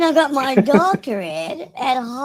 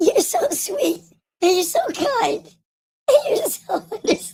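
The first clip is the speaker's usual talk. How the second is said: put-on, higher-pitched words breaking up with laughter; 6 semitones higher than usual. Retelling what a woman said, laughing through the imitation. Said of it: "I can't even say that shit without laughing".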